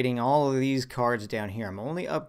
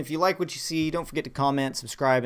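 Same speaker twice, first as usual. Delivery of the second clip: excited; 6 semitones higher, 5 dB louder than usual. Real, not acted. Upbeat outro to viewers.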